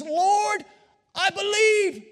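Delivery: loud, high cry of faith. Acted. A preacher voicing the father crying out to Jesus, loud and high. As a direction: call it out to the Lord. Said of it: "he cries out and he says".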